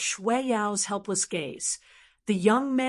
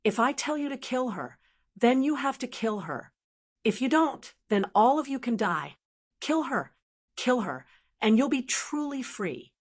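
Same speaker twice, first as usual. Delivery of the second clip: cold demon voice; 4 semitones higher than usual. Acted. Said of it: "suddenly turned cold and said".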